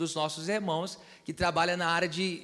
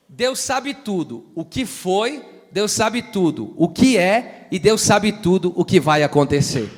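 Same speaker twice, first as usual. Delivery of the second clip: preaching, building force; 9 dB louder than usual. Real, not acted. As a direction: preach it with rising force, ending very loud. (pregação crescendo até ficar bem forte)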